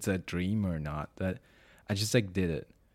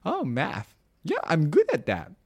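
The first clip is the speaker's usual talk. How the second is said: put-on higher, louder, boastful little-kid brag; cocky kid bravado; 9 semitones higher, 6 dB louder than usual. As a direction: brag like a six-year-old who thinks math is easy. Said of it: "I have the balls to say".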